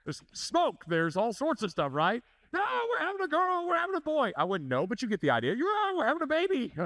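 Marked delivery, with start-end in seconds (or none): 2.5-4.3 much higher, gushing mock excitement; gushing parents. Parents at a gender reveal, mock gushing excitement. 5.5-6.7 much higher and fast, gushing parody; mock thrilled parent. Parent announcing the baby to guests, hammed-up thrill. Mocking gender reveal parents.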